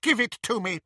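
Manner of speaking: imperious high demand; high commanding witch. Acted. Bellatrix to snatcher, high commanding witch. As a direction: order it like a haughty witch.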